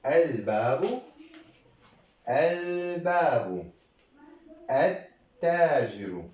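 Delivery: drawn-out words with pauses between; slow model reading. Shown as a demonstration. Teacher repeating with the class, slow and drawn-out. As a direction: read each word slowly for repeating.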